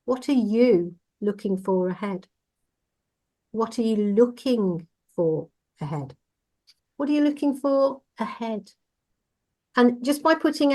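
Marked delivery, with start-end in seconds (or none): 0.0-2.3 "are" leaned on once more; "are" stressed again. Shown as a demonstration. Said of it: "we put the emphasis on each word". 3.5-6.1 falling tune after a pressed "are"; "are" stressed, closing fall. Shown as a demonstration. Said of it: "we put the emphasis on each word". 7.0-8.7 "you" pitched higher and stressed; single out "you". Shown as a demonstration. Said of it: "we put the emphasis on each word".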